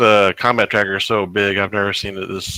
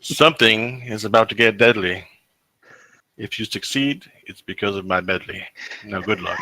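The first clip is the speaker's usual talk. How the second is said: reading a poem. Pretend. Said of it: "Flanardius is back with a brand new rendition".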